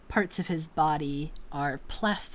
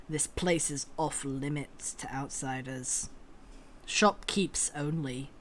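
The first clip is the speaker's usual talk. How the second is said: a hint of a sneer, lower; 3 semitones lower, 4 dB quieter than usual. Nagalean sneering at the outsiders. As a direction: sneer the refusal lightly. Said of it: "sneers a little bit".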